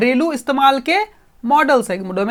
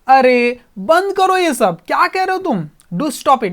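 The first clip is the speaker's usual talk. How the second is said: angrily; 4 semitones higher, 4 dB louder, slower than usual. Acted. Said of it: "गुस्से से कहा अजय ने".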